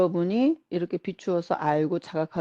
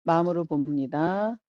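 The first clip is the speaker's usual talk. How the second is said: unhurried relaxation-guide voice, pausing between instructions; guided relaxation. Acted. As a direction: lead them gently through letting go. Guides attention to releasing tension. (차분한 이완 명상 안내)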